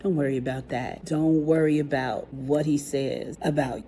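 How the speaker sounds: quietly reassuring, as retold; soothing reassurance. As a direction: comfort an upset child, gently played down. Teacher soothes child in retold scene.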